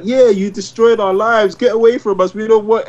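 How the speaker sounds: mock angry Rick. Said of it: "Rick is like".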